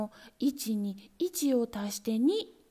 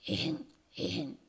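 throat clearing; 6 semitones lower, 6 dB quieter than usual. Retold or imitated. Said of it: "咳払い".

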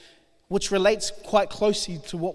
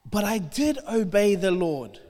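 mock Saul's self-justification. Preacher quizzing congregation, mocks Saul's excuse. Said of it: "What did he say?".

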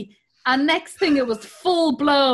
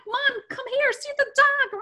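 put-on 1 Canadian kid calling; 13 semitones higher than usual. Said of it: "he has a Canadian accent".

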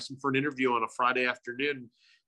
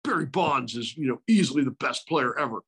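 higher voice impersonating Burnsy; doing Burnsy's voice, pitched up; Burns impression; 4 semitones higher than usual. Imitating Burnsy's take on Bonds. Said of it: "really put emphasis in the Burns impression".

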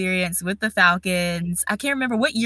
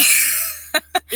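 high, breathless little laugh; real laugh; 9 semitones higher than usual. Real, not acted. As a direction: laugh off a hopeful wish. Laughs after hopeful maybe this year.

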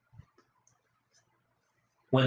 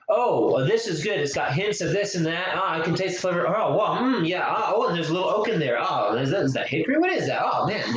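raised-pitch mock connoisseur savoring; wine snob voice; 5 semitones higher, faster than usual. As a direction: play a gushing wine taster.

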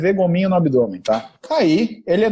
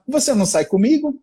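a higher, sulky wife voice, lightly done; wife voiced complaining; 6 semitones higher than usual. Husband imitates his wife asking why he never takes her out, higher sulky voice. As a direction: play the neglected wife asking why she is never taken out.

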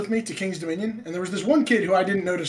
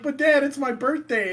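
put-on pleading kid; 9 semitones higher than usual.

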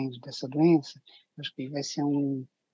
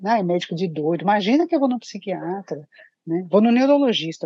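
scornful patient voice; 3 semitones higher, 5 dB louder than usual. Retold or imitated. Mocking patients' dismissive attitude.

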